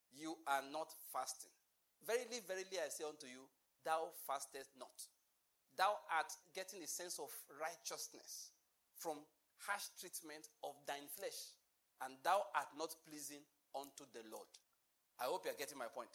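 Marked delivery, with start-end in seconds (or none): 2.0-5.1 mock biblical speech. Preacher mocks fasting piety in King James English. 5.8-14.5 mock biblical speech. Continues the King James parody.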